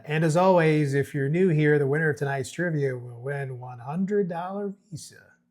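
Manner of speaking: lightly voiced trivia-night announcer; trivia host announcing. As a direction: open loud, like a host addressing the bar. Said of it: "starts announcing as Bear is about to speak".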